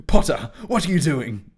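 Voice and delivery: loud, sharp demand. Acted. Draco demands to know what Harry is doing, loudly. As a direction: bark it at him. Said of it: "Draco demanded".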